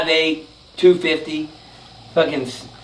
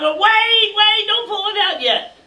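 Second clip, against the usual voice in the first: urgent plea; slower than usual. Retold or imitated. Urgent plea to stop friend.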